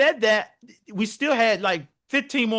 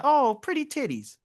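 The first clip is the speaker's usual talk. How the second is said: admiring coo; 4 semitones higher than usual. Shown as a demonstration. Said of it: "it sound beautiful. Like".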